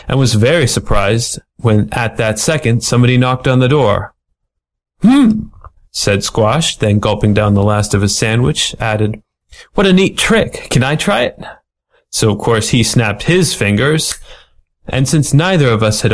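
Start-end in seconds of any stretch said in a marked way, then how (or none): 5.0-5.5 dopey hmm. Acted. Squash, dumb lug, reacts. 9.7-11.4 put-on much higher, childlike wonder of a dim giant; dopey big lug. Dumb Squash amazed by trick.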